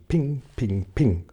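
light ping, ping, ping like metal; ping sound effect. A narrator's reading. Narrator imitates hail off the ladybird's shell, light ping. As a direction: tap out each ping. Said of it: "hail bouncing off shell".

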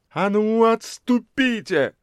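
high, slow furious order; furious shout. A narrator's reading. Lady in dark glasses shouting crowd back, furious high. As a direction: drive them back. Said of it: "яростно крикнула на них дама".

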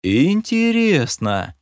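long, slow drawn-out word; drawling elf. Retold or imitated. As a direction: stretch it out like a bald elf, at half speed. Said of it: "Протянул я на манер лысого эльфа".

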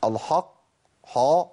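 «الحق، حا» with dark, backed a; forbidden heavy ḥ. Shown as a demonstration. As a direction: thicken the ḥ as a mistake in «الحق». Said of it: "لكن ما أقولش". («الحق» و«حا» بحاء مفخمة)

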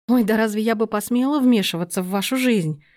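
mildly sugary, feigned innocence; butter wouldn't melt, lightly played; sweetly innocent. Lena, slyly baiting her aunt, mildly sweet innocence. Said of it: "мило улыбнулась Лена".

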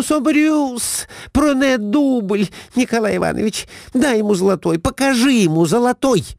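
high, frantic broken French; Глафира furious. A narrator's reading. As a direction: foam at the mouth at the waiter. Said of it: "с пеной у рта набросилась". (высокий яростный крик на метрдотеля)

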